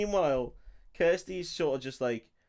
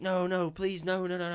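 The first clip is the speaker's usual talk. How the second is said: higher-pitched mock panicked begging; mock pleading; 6 semitones higher than usual. Film retelling of wife fearing for Larry, mock pleading. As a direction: plead in a raised voice, half in earnest.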